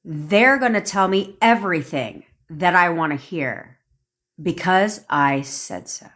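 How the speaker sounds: firm, measured declaration, falling at the end; like you mean it. Shown as a demonstration. Coach demonstrating an affirmation to listeners, said like you mean it. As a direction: state it as settled fact. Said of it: "say it like you mean it".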